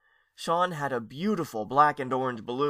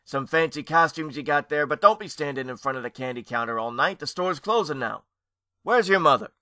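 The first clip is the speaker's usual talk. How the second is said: store manager; 3 semitones higher, 7 dB louder than usual. Acted. Store manager voiced in story.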